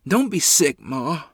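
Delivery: high, loud, panicky plea to Ma; panicked plea. A narrator's reading. Boy begging his sick mother, panicked and high. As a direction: beg her not to be sick, voice jumping up in fear. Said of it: "a tremor of panic ran through".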